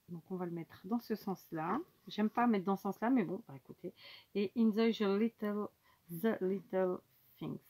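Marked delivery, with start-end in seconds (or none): 4.6-7.6 English with a thick French accent; bad French accent. Real, not acted. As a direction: read the English in your own clumsy French accent. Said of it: "avec mon accent bien pourri".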